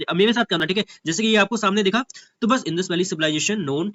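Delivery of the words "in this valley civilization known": picking out only the key words; skim reading. Shown as a demonstration. Teacher shows students how to glance through a passage, skimming key words. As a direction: skim aloud, dropping the little words. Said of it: "ऐसे, ऐसे बस".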